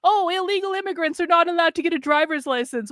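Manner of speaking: mock-incredulous repeat; mocking quote. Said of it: "Listen to what this person just said".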